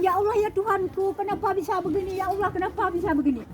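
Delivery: half-sob the prayer upward in despair; tearful plea. Retold or imitated. On the rescue boat she begs God in tears. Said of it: "saya dah nangis saya".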